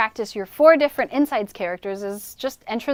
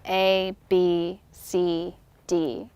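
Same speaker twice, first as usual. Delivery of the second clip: from the back of the throat; 3 semitones lower, 4 dB quieter, much slower than usual. Shown as a demonstration. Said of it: "pushing the voice out".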